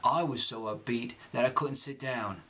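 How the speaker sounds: reading in Cockney accent. Shown as a demonstration. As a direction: read the letter in Cockney. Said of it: "I'm gonna read this text".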